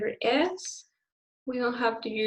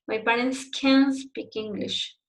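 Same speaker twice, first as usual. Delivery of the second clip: negative can, written "can", stressed over "speak"; stress on CAN'T. Shown as a demonstration. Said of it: "more the emphasis in the word can't".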